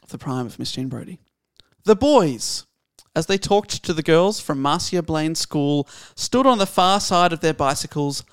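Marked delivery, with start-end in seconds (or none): 1.8-8.2 measured, slow literary reading; slow book reading; story reading. Acted. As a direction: read the opening line for an audience. Reads novel opening.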